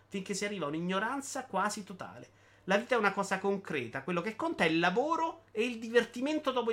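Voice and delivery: slightly lifted, emphatic reading voice; animated monologue reading. Acted. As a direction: declaim it like a public proclamation. Legge il monologo di Bitty. (lettura enfatica di un monologo)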